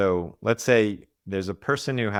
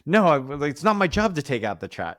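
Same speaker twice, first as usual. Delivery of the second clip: mock whine, pitched higher and louder; whiny defensive self; 7 semitones higher, 4 dB louder than usual. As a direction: whine like a sulky kid dodging a chore. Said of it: "The defending the shame is gonna be like".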